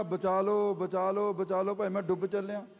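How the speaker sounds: quick, repeated retold cry for help; mild mock screaming. Shown as a demonstration. Preacher acting a drowning man crying out, mildly urgent mock yell. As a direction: imitate a drowning man's cries without really shouting. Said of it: "ਉਹ ਤਾਂ ਚੀਕਾਂ ਮਾਰਦਾ".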